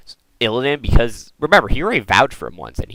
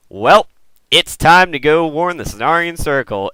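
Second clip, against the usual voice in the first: casual Malfurion; 7 semitones higher, 8 dB louder than usual. Retold or imitated. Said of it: "Malfurion was just like".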